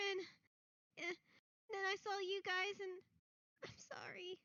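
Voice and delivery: high, halting confession; high halting child voice; tearful boy. Acted. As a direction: stammer it out near tears. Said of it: "looks at Kyra's like".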